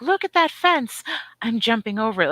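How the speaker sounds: cocky deer. Pretend. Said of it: "is like".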